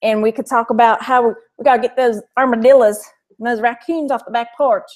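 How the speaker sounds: hammed-up rural Texas accent; backwoods Texas accent. Shown as a demonstration. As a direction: talk like backwoods Texas, playing it up. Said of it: "backwoods Texas".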